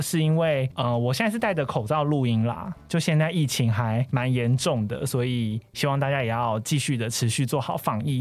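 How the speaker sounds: muffled by a mask; through a face mask. Real, not acted.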